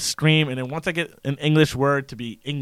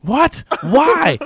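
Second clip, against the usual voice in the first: exasperated; 11 semitones higher, 4 dB louder than usual. Retold or imitated. Acting out the exasperated girlfriend.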